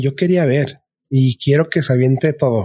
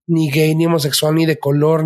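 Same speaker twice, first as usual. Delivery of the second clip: usual speaking voice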